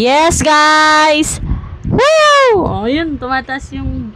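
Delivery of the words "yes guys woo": excited cheer. Real, not acted. Device works, cheering.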